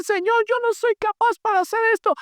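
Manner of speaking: very high, whining voice of a reluctant believer; whiny excuse. Retold or imitated. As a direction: mimic someone begging off a task. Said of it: "Y tú vas a decir". (queja aguda y lastimera de un creyente)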